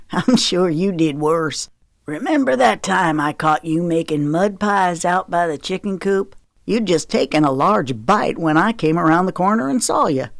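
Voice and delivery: lightly voiced Southern father reminiscing; Daddy, teasing. Daddy reminds Zoe of her mud pies, teasing.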